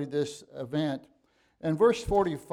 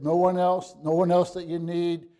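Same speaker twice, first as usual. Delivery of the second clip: louder, insistent repetition; emphatic insistence; 2 semitones higher, 5 dB louder than usual. Acted. Preacher voicing Jesus reassuring disciples, loud and insistent. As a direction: press "no one else" home firmly and loudly.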